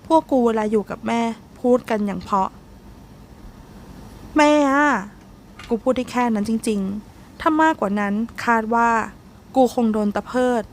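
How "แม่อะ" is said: whiny plea. Acted. Whining to mother.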